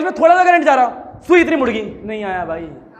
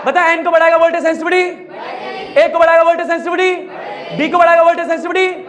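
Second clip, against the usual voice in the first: raised, fast drilling of the rule; 4 semitones higher than usual. Real, not acted. Teacher drilling students loudly.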